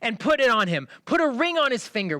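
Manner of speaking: loud, high orders; yelling. Acted. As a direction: keep shouting to the household. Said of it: "He's yelling".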